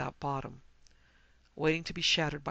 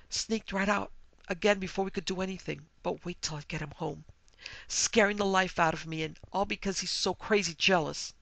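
upset outburst; 3 semitones higher, 4 dB louder than usual. Acted. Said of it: "She soothed Missus Talmadge".

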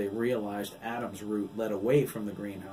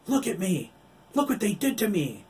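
high, loud anguished scream; screaming in rage; 11 semitones higher, 7 dB louder than usual. A narrator's reading. Billy screaming at Oliver about what they did. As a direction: shriek in rage at what was done. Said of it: "Billy screamed".

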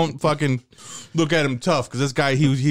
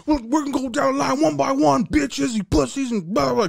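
high, brash jailhouse taunt; hammed-up inmate voice; mocking inmate bully; 12 semitones higher than usual. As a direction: lord it over the kids. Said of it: "He's like".

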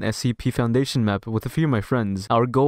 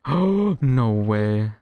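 scared horror game streamer; 3 dB louder, much slower than usual. Real, not acted.

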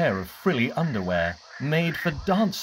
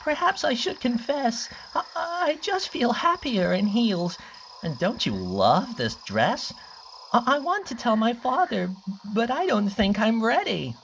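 shy confession; 9 semitones higher than usual. Acted. Cliff confiding in Freddy.

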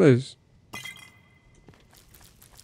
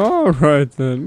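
voice cracking; 4 dB louder, much slower than usual. Real, not acted. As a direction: voice cracks on the words. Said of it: "My voice cracked".

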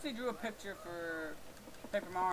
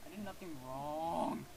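subdued protest; 2 semitones lower, slower than usual. Real, not acted. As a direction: protest slowly, in a small way. Pleads innocence to the game.

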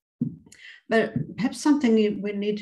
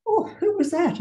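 puzzled surprise; 11 semitones higher, 4 dB louder than usual. Acted. Husband puzzled at fleeing man.

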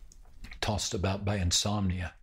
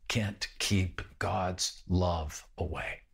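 drawn-out, every word weighed; slow deliberate; 3 semitones lower, much slower than usual. Acted. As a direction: let the promise land slowly. Sermon climax slowing down.

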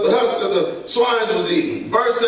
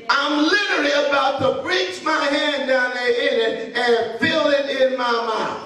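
prodigal son's lament; 2 semitones higher than usual. Acted. Prodigal son talking to himself.

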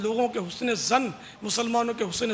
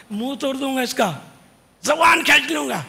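louder, higher mock threat; mock thuggish threat; 3 semitones higher, 4 dB louder than usual. Preacher imitating a rude reciter's coarse threats. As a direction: ham up a street brawler's menace. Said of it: "بعض ثناخوانوں کا تو واقعی انداز".

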